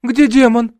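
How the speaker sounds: high, loud frightened question. A narrator's reading. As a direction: nurse asks fearfully where the demon is. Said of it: "испугалась сестра".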